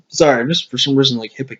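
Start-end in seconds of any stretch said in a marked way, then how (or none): 1.3-1.5 hiccups. Real, not acted.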